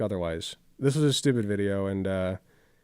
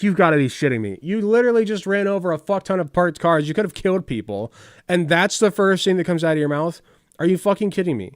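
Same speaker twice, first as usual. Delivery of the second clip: incredulous outrage; 5 semitones higher, 4 dB louder than usual. Retold or imitated. Retelling his reaction to movie.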